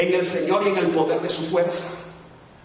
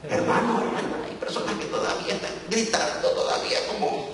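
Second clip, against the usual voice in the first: playful whispered aside; 4 dB quieter than usual. Acted. Preacher teasing the congregation about shouting, whispered. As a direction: whisper it like a secret joke.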